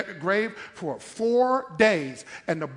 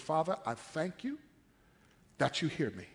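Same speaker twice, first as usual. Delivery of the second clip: soft, low voice of prayer; hushed prayer; 4 semitones lower, 11 dB quieter than usual. Acted. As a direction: pray it quietly, addressing the Father. Jesus praying at the grave.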